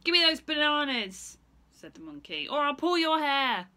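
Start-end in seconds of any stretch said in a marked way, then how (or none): 0.0-1.4 high, loud monkey demand; screechy monkey. Acted. Monkey demands bananas from Stephen, high and loud. 2.5-3.7 high, loud monkey demand; screechy monkey. Acted. Monkey demands bananas from Stephen, high and loud.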